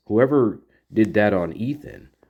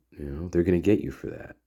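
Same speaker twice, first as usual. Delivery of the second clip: quieter, darker and a bit faster; ominous warning; 2 semitones lower, 4 dB quieter, faster than usual. Retold or imitated. Jack warns the girls in earnest, quietly ominous. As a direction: let it hang like a real threat. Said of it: "What if it was nefarious?".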